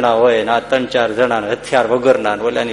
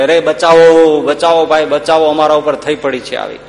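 મદદ માટે બૂમ. Retold or imitated. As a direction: imitate calling the village for help, drawing out the words. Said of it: "બૂમ પાડી કે". (મદદ માટેની લાંબી બૂમની નકલ)

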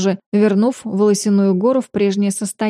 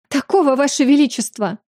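sobbing; 5 semitones higher than usual. Acted. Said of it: "всхлипнула леди Мансера".

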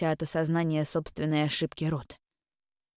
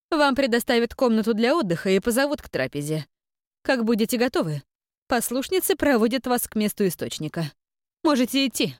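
imperious grande dame; 5 semitones higher than usual. Acted. Abbess dismisses them.

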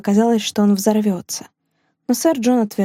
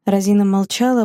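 ordinary delivery, nothing marked

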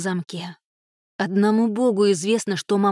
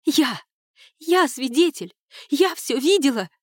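higher, urgent outburst; pitched-up desperate cry; insistent cry; 6 semitones higher than usual. A narrator's reading. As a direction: claim it as the only witness. Niece insists she witnessed it.

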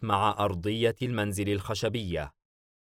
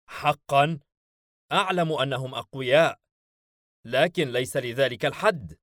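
higher, taken aback; startled disbelief, pitched up; surprised; 5 semitones higher, 4 dB louder than usual. A narrator's reading. Belphegor hears how strong the rivals are, surprised. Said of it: "وعيناه البلوريتين تتسعان".

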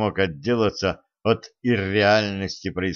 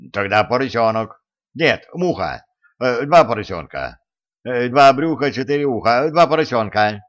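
взволнованно; 3 semitones higher, 5 dB louder than usual. A narrator's reading. Растерянный перебор ответов.

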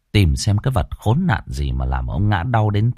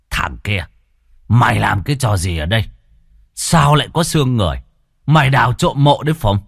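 fast, rising angry questioning; angry interrogation; faster than usual. Acted. Chief grilling the beaten peasant, angry questions. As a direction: demand answers, getting hotter.

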